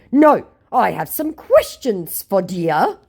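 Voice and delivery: high, slow, broken-English scammer; hammed-up scammer reading his own message; mock scammer voice. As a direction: read it like a clueless scammer. Reading scammer's lines in put-on voice.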